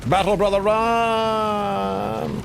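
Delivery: high urgent yell of warning; warning shout. Real, not acted. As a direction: call out to flee. Calling out warning to ally.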